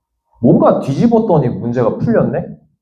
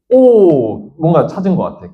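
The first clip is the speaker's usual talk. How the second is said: sudden discovery; 3 semitones higher than usual. Acted. Teacher acting out a student finding a clue, sudden discovery. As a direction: exclaim as if you just spotted it.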